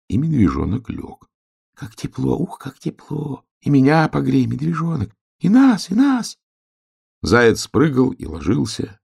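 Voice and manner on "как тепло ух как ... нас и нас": tiny high voice of the grass, delighted; little grass blades begging to be warmed. Acted. (высокий тоненький голосок травинок)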